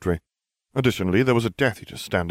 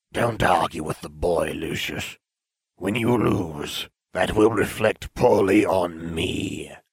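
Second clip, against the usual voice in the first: raspy, rasping voice cutting in. Reading a story, a voice suddenly interrupts, addressing Lucius: rasping voice. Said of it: "A rasping voice suddenly interrupted him".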